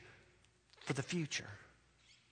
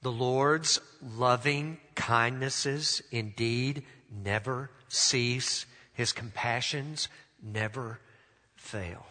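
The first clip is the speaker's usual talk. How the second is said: reading scripture; slower than usual. Acted. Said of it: "And he says".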